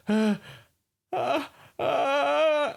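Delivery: high, panicked frightened cries; fearful cries. Shown as a demonstration. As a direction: cry out in pure fear. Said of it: "it's more like fear".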